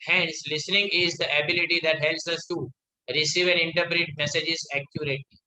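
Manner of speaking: reads the English line out word by word, very slow; slow classroom read-aloud; slow textbook reading. Acted. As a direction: dictate it slowly to the class.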